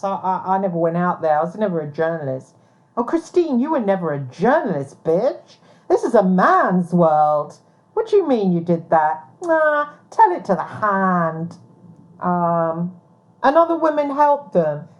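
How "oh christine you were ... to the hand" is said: mocking sneer. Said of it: "mocking the doubters".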